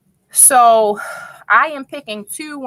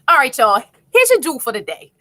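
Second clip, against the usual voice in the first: Miss Joni; 2 semitones higher, 4 dB louder, faster than usual. Retold or imitated. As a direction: playfully mimic a host announcing the jewel. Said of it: "I gotta be like Miss Joni".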